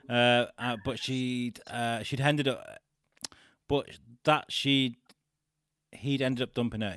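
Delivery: slight Liverpudlian twang; light Cheshire accent. Acted. Podcaster reading tabloid story to co-host, attempted Cheshire accent. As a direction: read it with a loose northern Cheshire twang. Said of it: "but sort of not strong. Definitely a, a twang".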